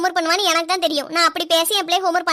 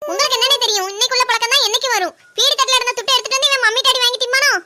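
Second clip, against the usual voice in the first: angry scolding; 4 semitones higher, 4 dB louder than usual. Acted. Mother scolds angrily.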